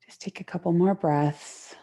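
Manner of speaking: gentle, unhurried yoga guidance with long pauses; guided relaxation. Real, not acted. Yoga teacher settling students into the mat, guided relaxation.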